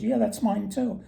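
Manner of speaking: greedy woodsman. Retold or imitated. Greedy woodsman lies to the elf, high and eager.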